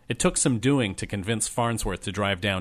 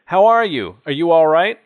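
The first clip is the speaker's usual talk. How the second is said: excited concern; 7 semitones higher, 9 dB louder than usual. Acted. Elder greets returning friend.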